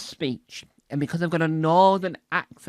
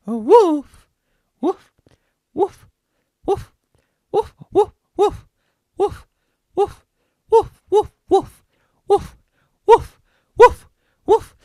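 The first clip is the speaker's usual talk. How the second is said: much higher repeated "woof" yaps; annoying barking; 8 dB louder, slower than usual. Shown as a demonstration. Trying to say woof until it's noise, high barking. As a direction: yap "woof" over and over, high and loud. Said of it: "it becomes a rather annoying noise".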